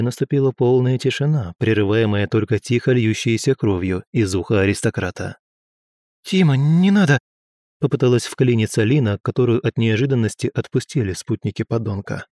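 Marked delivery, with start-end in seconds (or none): 6.2-7.2 pleading cry. Acted. Lina tries to stop fight.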